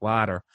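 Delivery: "Water" with a drawn-out, flattened vowel; imitated Limerick vowels. Critic mimicking the actress's accent, "Water" with drawn-out flattened vowel. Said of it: "sound more like a Limerick City".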